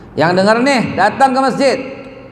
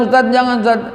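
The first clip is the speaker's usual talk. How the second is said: higher-pitched imitation of a scared youth; retold fearful plea; 5 semitones higher than usual. Frightened young man begs his ustaz, retold plea. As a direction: mimic his anxious begging, pitch up. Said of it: "Dia nangis, dia takut".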